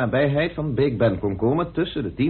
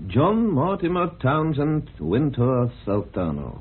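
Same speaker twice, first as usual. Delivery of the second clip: slow, deliberate; 2 semitones higher, slower than usual. Acted. Slowly spelling out full name.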